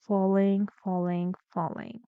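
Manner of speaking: "falling" sinking away by stages; stepwise falling. Shown as a demonstration. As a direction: step down with every "falling". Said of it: "falling intonation".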